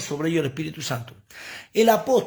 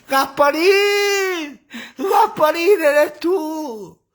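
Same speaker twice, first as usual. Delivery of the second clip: high, loud laughing wail; half laughing, half shrieking in fright; hammed-up giggling panic; hysterical laughing cry; 14 semitones higher, 6 dB louder, much slower than usual. Disciples mock-scared at Jesus.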